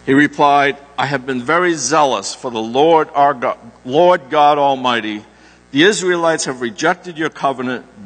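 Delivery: measured, solemn lectern reading; steady, reverent Bible reading from the pulpit; scripture reading. Acted. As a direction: read the passage aloud to the congregation. Reads scripture to congregation.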